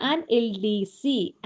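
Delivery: very slow, "an" set apart before "എൽ ഡി സി"; "an" said on its own, then "എൽ ഡി സി" letter by letter; slow demo. Shown as a demonstration. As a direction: spell out "an എൽ ഡി സി" slowly. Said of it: "അതുപോലെ".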